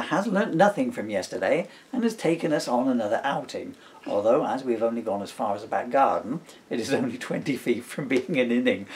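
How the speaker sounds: put-on storybook reading in the baby's diary voice; reading aloud. Dad reading his book to his son, lightly voiced story reading. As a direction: read the diary entry out with a dry wink.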